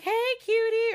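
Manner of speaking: high, loud singsong hello; flirty greeting. Retold or imitated. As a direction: call it out playfully, way up high.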